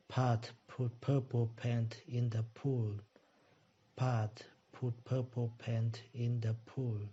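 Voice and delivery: Pat put purple paint in the pool, slow, with the stress on Pat; a slow practice take leaning on Pat; slow drill. Shown as a demonstration.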